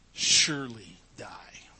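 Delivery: whispered, low surely die; hushed solemn whisper; hushed warning. Shown as a demonstration. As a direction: breathe the warning like a secret. Preacher quotes God's warning.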